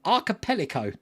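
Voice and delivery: "archipelago" sounded out in parts, ar-ka-pel-ago; broken-up word. Shown as a demonstration. Thanking a helper for the spelling, "archipelago" sounded out in parts. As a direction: read "archipelago" carefully from a phonetic spelling. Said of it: "Break it up".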